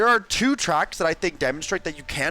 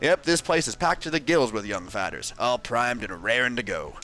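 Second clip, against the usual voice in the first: Grubba voice. Acted. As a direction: holler it like a folksy old prospector. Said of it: "I'm gonna voice Grubba".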